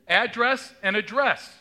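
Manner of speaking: "Address and address" slow, stress shifting; first ADdress, then adDRESS; stress contrast. Shown as a demonstration. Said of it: "homograph demo".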